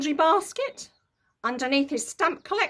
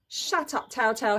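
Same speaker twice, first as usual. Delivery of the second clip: hissing. Acted. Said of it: "hissed Henry".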